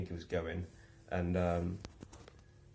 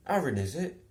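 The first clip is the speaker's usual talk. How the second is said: high, louder mock question; imitating Steve; 8 semitones higher, 6 dB louder than usual. Steve guessing Luke's name, high mock voice. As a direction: mimic a confused man.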